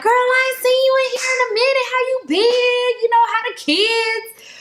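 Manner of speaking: high excited gossip voice; chatty inmate greeting. Retold or imitated. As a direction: greet her like an old friend.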